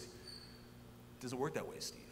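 soft, slow, breathy aside; calm quiet correction, slowed down; retold dean. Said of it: "He goes".

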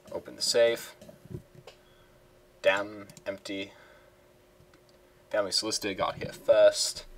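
a hammy, lightly put-on British accent; terrible British accent. Gentleman thief finding the safe empty, in a terrible British accent. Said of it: "I shall do terrible British accents".

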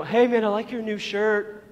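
lightly put-on pal voice; mock-friendly setup; imitating teasing friend. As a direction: pretend to compliment a buddy. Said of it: "And they always did the laugh".

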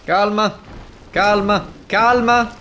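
high loud urgent pleading; panicked self-calming shout; frantic calma. Real, not acted. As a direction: beg yourself to stay calm, shouting. Panicking while fighting.

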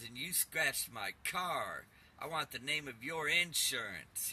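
slow, menacing mock demon voice; demonic caller. Caller threatening the narrator over his card, slow mock demonic voice. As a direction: drag the words out like a lightly voiced evil caller. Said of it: "this guy sounded very demonic, evil".

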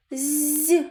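"з" as a long palatalized buzz; soft consonant. Shown as a demonstration. Teacher answers the first sound, long soft з. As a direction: hold a soft "з", as before і. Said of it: "М'який приголосний".

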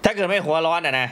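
talking with a sore jaw; after wisdom teeth. Real, not acted. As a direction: speak carefully, mouth sore from surgery. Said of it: "ผมจับแก้มตัวเองบ่อยนิดหนึ่งฮะ ผมบังเอิญว่าไปผ่าฟันคุดมา".

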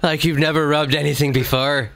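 mock-seductive Irish brogue; sexy Irish accent. Shown as a demonstration. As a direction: finish the joke as an Irish lover. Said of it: "give me some sexy talk in Ir-, Irish accent".

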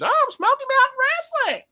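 very high, loud ranting put-on voice; Jim Cornette. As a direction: rant like a wrestling manager going off. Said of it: "Jim Cornette going off about it".

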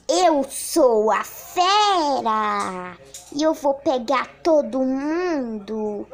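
slow mock-menacing monster voice; slow menacing beast. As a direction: play the beast, drawn out. Playing the beast role.

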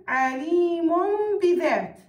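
عليم بذات slowed, tanween sounded as a held m; teacher's slow model of عليم بذات with a lengthened m; iqlab pronunciation. Shown as a demonstration. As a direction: hum an m between عليم and بذات. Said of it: "كيف ألفظها؟".

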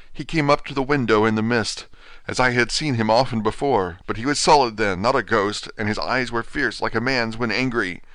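lightly voiced feeble patient, dazed; a hint of a broken man just waking from a dream; faint, bewildered invalid, lightly voiced; weak dying Renfield. Renfield describes the vampire.

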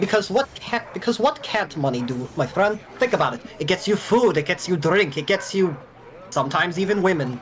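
a hint of a character accent; lightly voiced money lover. Dolfo telling a new friend why money matters, lightly voiced. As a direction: pitch it like a friendly sales case for money.

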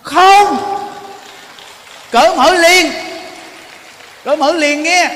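loud, high emphatic no; preacher's fiery exhortation; forceful preacher's answer. Real, not acted. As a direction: hammer home the answer. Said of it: "có nên không?".

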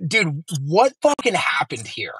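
slow, whispered disbelief; stunned whisper. Retold or imitated. Buddies compare neighbor stories, whispering in stunned disbelief. Friends stunned by what they learned.

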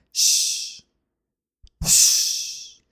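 breathy whispered shh; calming a frightened friend with a whispered shh; soft shush. Acted. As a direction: hush her gently in a whisper. Soothing a scared friend.

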